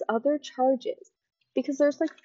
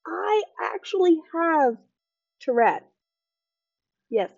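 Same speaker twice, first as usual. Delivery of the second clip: higher mock-excited host; imitating the host; 7 semitones higher, 4 dB louder than usual. Vlogger mimics host revealing his own Tourette's, higher. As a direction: ham up his gleeful reveal. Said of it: "He's like".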